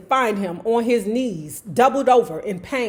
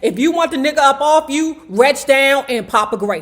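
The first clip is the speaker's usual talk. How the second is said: retold advice; 2 semitones higher, 4 dB louder than usual. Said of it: "I'ma tell you like Mick told me".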